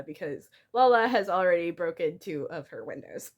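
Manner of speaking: ordinary delivery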